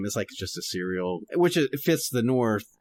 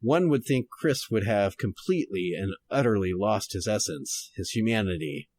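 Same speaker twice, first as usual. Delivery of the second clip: noir detective. Shown as a demonstration. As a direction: read it like an old detective radio drama. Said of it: "going to try to read this kind of noir-ish".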